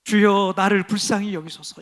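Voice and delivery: prayer. Shown as a demonstration. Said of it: "이렇게 기도하세요".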